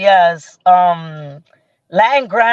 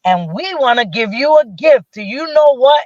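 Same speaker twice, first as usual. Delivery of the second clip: higher, lilting mock host announcement; announcing a surprise; 3 semitones higher than usual. Hosts surprising her with gifts, hyped announcement. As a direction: build up the surprise like a show host.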